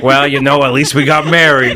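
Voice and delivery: a light put-on husband voice, lazy and shrugging; loosely voicing the husband's reply; husband imitation. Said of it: "and he's like".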